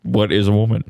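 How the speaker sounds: deadpan pundit impression; Matt Walsh. Co-host repeating the documentary's question at his friend, deadpan impression. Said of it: "I was doing Matt Walsh".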